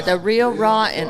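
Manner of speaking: slow, drawn-out put-on voice. Shown as a demonstration. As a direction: drag out real raw like a show host. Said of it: "Let's put that voice in there".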